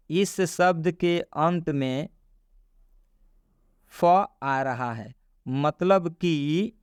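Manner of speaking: slow, measured read of a written rule; reading a rule aloud. Shown as a demonstration. Teacher reads the rule on screen to learners, slow read-aloud. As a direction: spell the rule out slowly, phrase by phrase.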